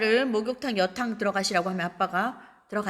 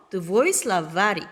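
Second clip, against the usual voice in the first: very slow, syllable by syllable; slow model reading; 2 semitones lower, much slower than usual. Shown as a demonstration. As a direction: read it out slowly for the class. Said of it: "너의 사전". (아주 천천히 또박또박)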